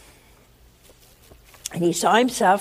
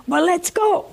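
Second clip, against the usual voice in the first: high, bright eagerness; high-pitched eager man; eager excitement; 10 semitones higher, 5 dB louder than usual. Retold or imitated. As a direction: burst out ready to go.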